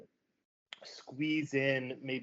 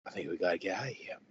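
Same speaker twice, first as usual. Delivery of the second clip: urgent shout; 6 semitones lower, much faster than usual. Acted. Parent urges fleeing the village.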